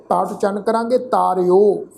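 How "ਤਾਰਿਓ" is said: ਤਾਰਿਓ with a long "aa" and final "yo"; careful pronunciation. Shown as a demonstration. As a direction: model ਤਾਰਿਓ as "taar-yo". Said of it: "ਔਂਕੜ ਦੀ ਮਾਤਰਾ ਲੱਗੀ ਹੋਈ".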